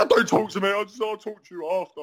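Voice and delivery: mock-hysterical brush-off, pitched high; high, agitated "leave me alone". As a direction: imitate her upset rebuff. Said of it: "fucking hysterical bitch".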